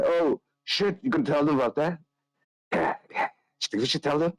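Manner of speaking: eager, giggly secret-sharing; bursting to tell a naughty secret; conspiratorial rogue. Acted. Nikolai confides secret.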